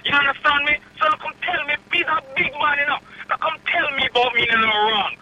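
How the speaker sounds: fired-up Jamaican patois, words tumbling; heated Jamaican rant down the phone; angry Jamaican patois. Real, not acted. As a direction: Jamaican man defending himself, angry patois. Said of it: "you went on a Jamaican run".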